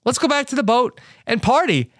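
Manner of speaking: high, hammed-up eager call; mock party enthusiasm. Host imitating the drunk crew heading back to party, mock enthusiasm.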